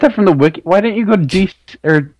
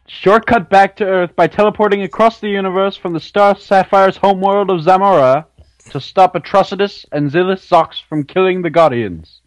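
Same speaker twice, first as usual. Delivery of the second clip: running out of breath mid-summary; gasping through a long sentence. Real, not acted. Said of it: "you're running out of breath".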